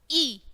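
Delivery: ई said short and quick; short quick vowel. Shown as a demonstration. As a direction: say a brief ई, as a phonics sound. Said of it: "छोटे से हम बोलेंगे जल्दी से". (ई को छोटा, जल्दी से बोलें)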